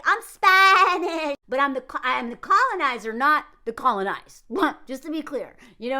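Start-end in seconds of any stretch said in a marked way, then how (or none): 0.0-4.4 mocking her boast. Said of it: "for her to be like".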